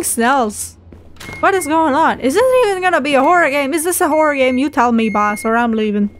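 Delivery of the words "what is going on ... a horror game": raised, rushed questioning; rattled and demanding an answer; alarmed disbelief. Real, not acted. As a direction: fire off startled questions, pitched up. Startled by the game, demands answers.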